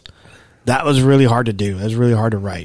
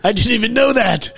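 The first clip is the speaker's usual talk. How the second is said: surprised; 11 semitones higher than usual. Real, not acted. Surprised at the shirt story.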